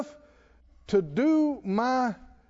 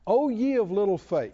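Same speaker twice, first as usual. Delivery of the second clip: lightly voiced rebuke of little faith; quoting Jesus. Shown as a demonstration. Pastor quotes Jesus to the congregation, mild rebuke. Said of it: "I'm gonna quote Jesus now".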